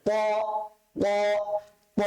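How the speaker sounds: "প" as a thick "ত" from further back; heavy letter sound. Shown as a demonstration. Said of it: "মোটা করে".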